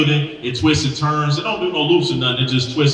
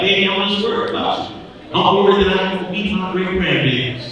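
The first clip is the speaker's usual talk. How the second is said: slightly raised, worried grandma voice; lightly voiced grandma laying on the guilt; guilt-tripping grandma; 4 semitones higher than usual. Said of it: "some grandma trying to guilt trip".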